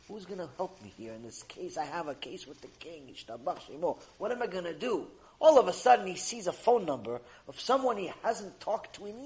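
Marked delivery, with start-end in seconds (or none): 0.1-5.1 despairing. Acted. Despairing man.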